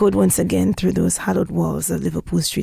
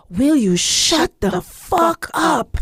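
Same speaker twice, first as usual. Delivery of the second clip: retold shout; 7 semitones higher, 3 dB louder, slower than usual. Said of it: "she shouted or screamed even".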